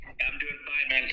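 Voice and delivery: talking while chewing; words round a bite of food; mouth full. Real, not acted. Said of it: "I'm eating right now".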